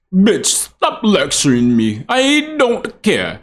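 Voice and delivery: slow, drawn-out mock defiance; exaggerated slow mocking retort; mocking quote. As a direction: drag out each word, pitch jumping up at the end. Second, mocking reading of the reply.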